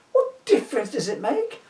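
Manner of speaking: laughing retake. Shown as a demonstration. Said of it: "That one was well telegraphed".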